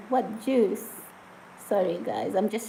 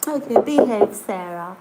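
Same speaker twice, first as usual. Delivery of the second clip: playful scolding; 10 dB louder than usual. Real, not acted. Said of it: "scolding viewer Sarah".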